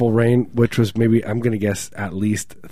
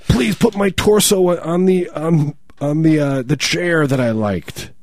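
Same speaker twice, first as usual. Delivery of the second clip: put-on old grandma voice; 6 semitones higher, slower than usual. Zombie grandma speaking.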